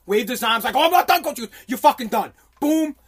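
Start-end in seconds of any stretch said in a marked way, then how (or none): 0.8-1.4 higher, louder plea; acted protest. Acts himself protesting to coach. 1.7-2.3 loud retold dismissal; pissed-off coach. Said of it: "he was so pissed off".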